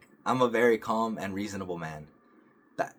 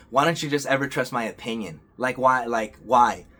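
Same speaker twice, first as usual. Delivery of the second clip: mock exasperated demand, building louder; retold yelling; 2 semitones higher, 6 dB louder than usual. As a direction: imitate a partner's mild yell. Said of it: "she just started yelling at me".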